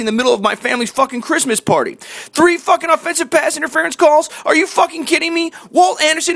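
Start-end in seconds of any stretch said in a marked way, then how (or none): 5.7-6.4 Walt Anderson yelled out in outrage; shouted name. Real, not acted. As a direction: call out Walt Anderson like an accusation. Ranting at the referee by name.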